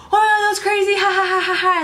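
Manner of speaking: high giddy laugh after the scare; relieved laughter. Retold or imitated. Girls safe upstairs after car chase, relieved laughter. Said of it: "first we were like".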